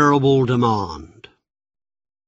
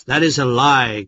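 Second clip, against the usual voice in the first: angry cry; 3 dB louder than usual. Acted. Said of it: "cried Agamemnon".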